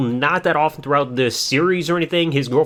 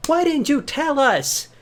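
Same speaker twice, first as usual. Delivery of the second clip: much higher and slow, same loudness, drawn out; slow mock disbelief; 12 semitones higher, slower than usual. Parents question their son again, high slow disbelief. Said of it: "It's like".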